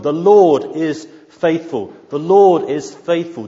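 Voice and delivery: loud, hammering repetition of The Lord is faithful; pounding it home. Shown as a demonstration. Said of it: "He simply keeps pounding his point home".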